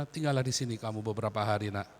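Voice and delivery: low, soft fatherly welcome; gentle reassurance. Acted. Pastor invites a homeless guest to stay, gentle reassurance. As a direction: take them in quietly and gently.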